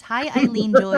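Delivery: bright greeting. Real, not acted. Greeting listener brightly on air.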